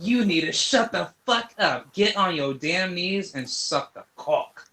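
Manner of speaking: mock posh command; mock British scold. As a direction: bark it like a snooty British master. Mocking British demand to kneel.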